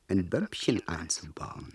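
whispered scheming; slow sly whisper; conspiratorial whisper. Acted. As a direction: hush it like a secret plot. Plotting a clock bomb.

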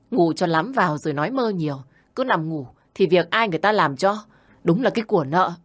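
a hint of a harsh young wife berating her mother-in-law; lightly voiced shrew, nagging and scornful; scolding daughter-in-law. Daughter-in-law mocks from outside.

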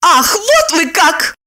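high, slow indignant exclamation; mock outraged cry. Lipochka cries out at Roman, offended. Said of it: "закричала она".

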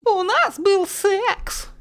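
very high, drawn-out nasty mimicry of her own words; mocking herself. Yulia mocking her own confession in a very high, slow nasty voice. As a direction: mimic yourself slowly in a nasty voice. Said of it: "Передразнила себя Юля противным голосом".

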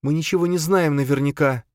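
high, bored mimicry of his line. Charna throwing Khranka's phrase back, bored. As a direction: parrot him lazily. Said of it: "скучающим взглядом".

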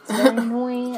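half-laughing gripe; laughing complaint. Real, not acted. Complaining to cohost about Donna, laughing aloud. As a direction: say it aloud with a laugh breaking through.

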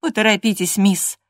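insisting. Acted. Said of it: "настаивала я".

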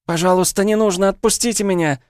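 high, loud desperate begging; Alice begging the gunman to let her go; terrified pleading. Acted. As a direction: plead for your life. Hostage begging at gunpoint.

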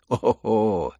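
loud mocking chuckle falling to low; gloating. Lizaveta gloats that Aglaya will mock the prince, chuckling. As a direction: relish his coming humiliation.

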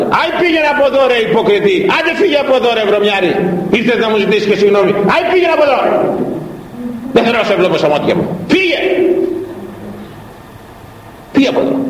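high, furious yelling, driving him out the door; furious shouting. Acted. Brother yells at the kneeling monk to get out, furious. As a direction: shout him away, full of scorn.

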